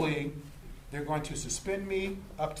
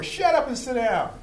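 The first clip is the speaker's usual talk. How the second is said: higher, louder angry command; angry officer yell; 8 semitones higher, 7 dB louder than usual. Retold or imitated. Bad-day officer yelling at a citizen who asks why, angry shout. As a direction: bark it down at him, fed up.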